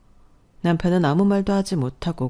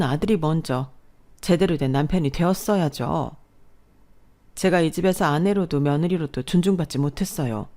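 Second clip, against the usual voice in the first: finally exploding. Acted. Wife confronting her mother-in-law, angry defiance. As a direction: stand up and fire back.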